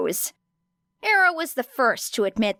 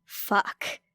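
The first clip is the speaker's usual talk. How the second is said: whispered curse; 5 dB quieter than usual. A narrator's reading. Character's winded aside.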